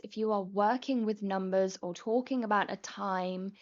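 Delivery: ordinary talk, nothing marked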